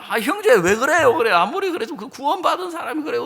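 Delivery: high, loud, indignant reproach; mock scolding. Evangelist rebuking a brother on sight, mock scolding. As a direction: lay into him with hammed-up outrage. Acts himself scolding the husband.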